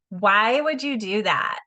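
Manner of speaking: slow, pointed "why" that puts people on the defensive; accusing why. Shown as a demonstration. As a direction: press the question like an accusation. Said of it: "Notice the inflection of my voice".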